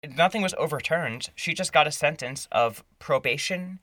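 indignant. Real, not acted. Indignant about the lenient sentence.

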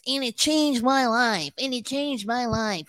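lightly imitated fake salesman testimonial; Dean. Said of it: "he talks like this".

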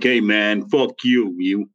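mock tough American accent; Donnie. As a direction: imitate a mouthy American buddy's accent. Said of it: "Donnie who's kinda like".

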